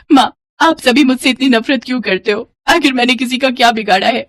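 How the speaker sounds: lightly acted wounded daughter; hurt pleading. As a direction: ask with a touch of tearful hurt. Rejected daughter pleads with mother.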